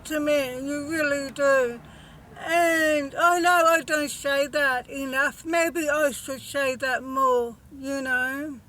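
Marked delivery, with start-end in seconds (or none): 2.4-7.6 fighting back real tears as she thanks viewers; emotional. Real, not acted. Vlogger thanking her subscribers, holding back tears. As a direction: close to tears, voice catching. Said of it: "I feel emotional again".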